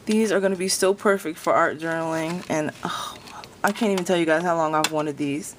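usual speaking voice

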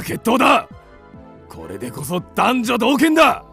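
blustering vow building in pitch; indignant bluster. Acted. Man fired up for a duel with the woman, blustering. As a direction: work yourself up into a fighting rage.

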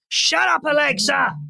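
high-pitched sharp call to the speaker; calling out to Alexa. Real, not acted. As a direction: snap at the device to shut up. Telling smart speaker to stop.

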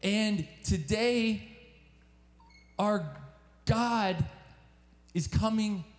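earnest sermon appeal, lifted and steady; preacher's call to the congregation; preaching appeal. Acted. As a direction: plead with the young people to come near to God.

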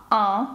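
"ан" as an open A through the nose; open nasal sound. Shown as a demonstration. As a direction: open "ан" as for A, letting it resonate nasally. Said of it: "ви відкривали ніби з буквою «а»".

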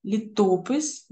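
"Літопис" with the О stressed; stress on second syllable. Shown as a demonstration. Teacher giving correct stress, "Літопис" stressed on second syllable. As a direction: lean on ТО in "Літопис". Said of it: "правильно наголошувати другий склад".

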